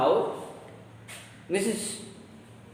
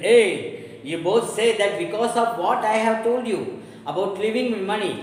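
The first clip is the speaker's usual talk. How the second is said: loud, higher angry rebuke; 6 semitones higher, 5 dB louder than usual. Acted. Old father loudly rebuking quarrelling daughters. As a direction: cut through their quarrel.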